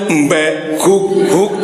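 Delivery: imitated goat bleat and dog woofs; bleat, then bark twice in imitation; animal noises. Preacher lists animals Adam met, imitating their noises.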